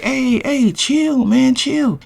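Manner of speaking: high-pitched plea to back off; alarmed protest. Retold or imitated. Man fending off a pushy date, high alarmed protest. Fending off her advances in the story.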